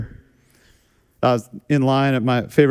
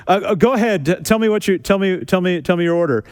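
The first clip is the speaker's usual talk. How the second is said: higher, stammering hurry; flustered drive-thru kid; 4 semitones higher than usual. Retold or imitated. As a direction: stumble over the words like a nervous new worker. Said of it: "Guy comes back on and goes".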